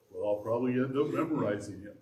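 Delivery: mock reluctant aside; dry sarcastic grumble. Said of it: "That was sarcasm".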